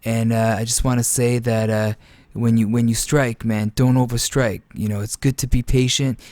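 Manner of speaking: a hint of a laid-back gamer voice, barely changed; lightly imitating a chill pro player thanking fans; Prioxis impersonation. Caster imitates Prioxis greeting the viewers, lightly voiced. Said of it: "So here's my Prioxis impersonation".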